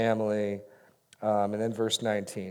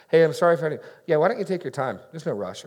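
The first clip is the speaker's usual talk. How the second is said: rude, raised and snappy brush-off; like a punch; 5 semitones higher, 4 dB louder, faster than usual. Shown as a demonstration. Pastor showing a rude reply to an apology, punchy. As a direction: say it like a punch to the face. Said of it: "say it like a punch to the face".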